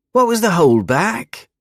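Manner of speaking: put-on high, pushy young man voice; impatient bully voice. A narrator's reading. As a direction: demand it like a bored bully.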